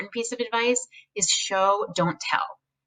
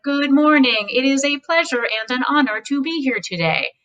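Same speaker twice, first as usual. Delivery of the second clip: stiff, formal speech opening; lightly acted stiff formal greeting; weird formal voice; 5 semitones higher than usual. Shown as a demonstration. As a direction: sound like a podium speaker. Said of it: "put on this weird formal voice".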